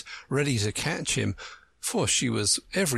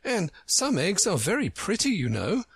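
Alice; 9 semitones higher than usual. A narrator's reading. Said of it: "she added".

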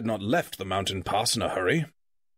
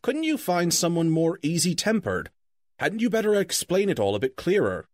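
dwarves complaining; 6 semitones higher than usual. Acted. Dwarves pestering the wizard, higher and fretful. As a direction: grumble up at the wizard in a higher pitch. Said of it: "they asked".

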